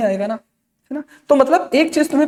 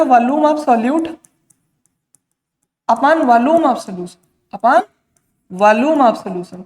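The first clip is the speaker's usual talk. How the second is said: slow dictation; much slower than usual. Shown as a demonstration. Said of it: "teacher dictating formula slowly".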